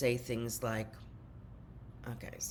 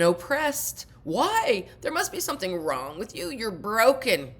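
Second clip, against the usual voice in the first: much higher, louder mock parent nagging; imitating nagging parent; 5 semitones higher, 4 dB louder than usual. Parent berating teenager, higher mocking nag. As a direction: whine it like a controlling parent berating a teen. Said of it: "the parent's speech evolved into".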